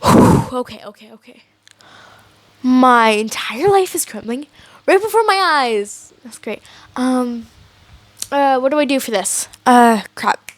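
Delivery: sigh, then mutter the panic under the breath; quiet silent panic. Retold or imitated. A character silently panicking over what to do, muttered mock panic. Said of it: "a better example would be like".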